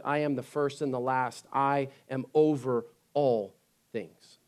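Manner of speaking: earnest sermon delivery; preaching. Acted. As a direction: preach it to the congregation.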